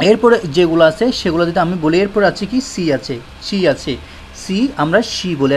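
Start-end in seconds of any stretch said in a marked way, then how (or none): none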